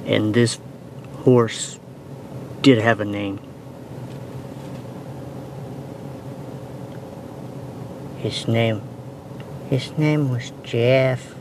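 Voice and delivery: low, measured anchor delivery; newscaster voice. Acted. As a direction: somber evening news read. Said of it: "In your best newscaster voice".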